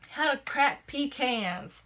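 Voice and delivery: "pecans" said as PEE-cans, the Southern way; slow, with a Southern "pecans"; regional pecans. Shown as a demonstration. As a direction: say "pecans" like folks where they trap rabbits. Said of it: "that's how you're gonna say pecans".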